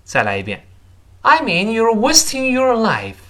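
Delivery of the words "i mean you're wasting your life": "I mean you're wasting your life" high and slow, "wasting" and "life" stressed; emphatic stress. Shown as a demonstration. Teacher rereads for students to follow, "wasting" and "life" heavily stressed. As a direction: stretch "I mean you're wasting your life", punching "wasting" before a final fall. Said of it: "一定是重读的".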